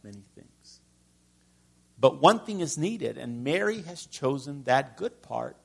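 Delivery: Jesus gently calming Martha; gentle rebuke. Acted. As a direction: speak gently to a worried friend. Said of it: "in this tone of voice".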